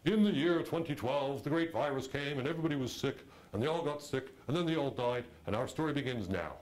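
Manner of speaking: lightly hammed-up voiceover narrator; mock movie prologue. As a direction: ham up a cheesy opening crawl. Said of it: "there's a prologue".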